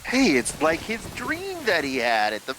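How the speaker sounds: excited. Real, not acted. Excited recognition.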